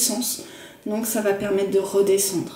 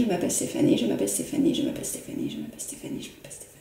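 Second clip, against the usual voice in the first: fading to a whisper; 14 semitones lower, 6 dB quieter, much faster than usual. Shown as a demonstration. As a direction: repeat it softer each time until it's a whisper. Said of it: "on peut le dire dans sa tête".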